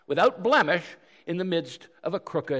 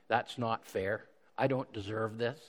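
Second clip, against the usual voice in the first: soft complaint; 3 semitones lower, 6 dB quieter than usual. Retold or imitated. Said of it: "couldn't Jesus have said".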